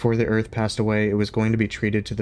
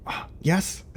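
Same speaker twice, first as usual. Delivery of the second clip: much higher, whispered mock dog voice; voicing the dog; 10 semitones higher than usual. Streamer voicing her dog's happy reaction, high whisper. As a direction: squeak it like the dog's delight. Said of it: "she's like".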